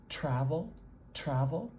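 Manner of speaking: "travel" with a crisp aspirated T, ending on a rise. Shown as a demonstration. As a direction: puff air on the T of "travel". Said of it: "I'm making that T very crisp".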